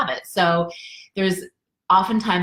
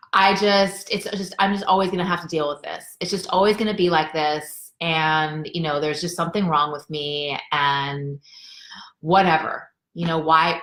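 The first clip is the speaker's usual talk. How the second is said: understated, resigned victim voice; defeated victim. Acted. Coach voicing the victim voice, mildly defeated. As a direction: voice a mild sense of giving up. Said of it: "that sort of defeated voice".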